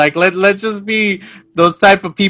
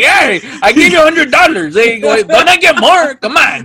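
laughing mock complaint; 5 semitones higher than usual. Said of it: "He's like".

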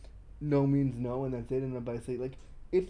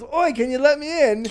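high, loud London call; London accent; 11 semitones higher, 10 dB louder than usual. Retold or imitated. Locked-out London lover calls to be let in, London accent. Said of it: "He was from London".

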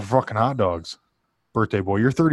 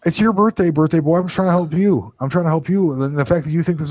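raised exasperated voice; 6 semitones higher, 5 dB louder than usual. Real, not acted. Exasperated pleading with friend.

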